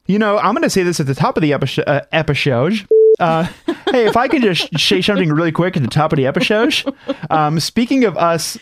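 talking through sticky peanut butter; words round a mouthful; mouth full of peanut butter. Real, not acted. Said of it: "Sorry, we have peanut butter in our mouth".

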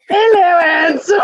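high, breathy sultry coo; breathy vintage purr. Pretend. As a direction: purr it like a flirty screen siren. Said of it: "make that, Mike".

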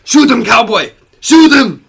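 urging shout. Acted. Urging the cowboy to shoot.

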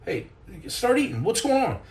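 high-pitched mock Italian-film outburst; Italian movie character. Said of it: "you guys have seen the Italian movie. It's like".

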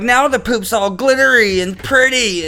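put-on high, slow sugary girl voice; girly voice. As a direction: coo it like a dreamy girl. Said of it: "they're like".

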